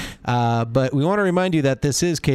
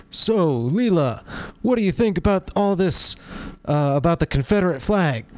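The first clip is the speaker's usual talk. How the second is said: Larry King voice; 3 semitones higher than usual. Retold or imitated. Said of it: "I did a little Larry King voice".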